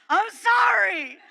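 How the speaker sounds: high, drawn-out frightened whimper; squeaky apology. Retold or imitated. Fluffy caught in the hero's bathroom, slow squeaky apology.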